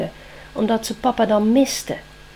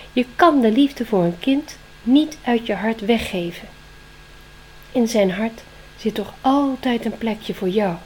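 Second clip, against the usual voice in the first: loud owl voice; comforting owl; 4 dB louder than usual. Acted. Wise owl comforts Spring with a wing around her, loud.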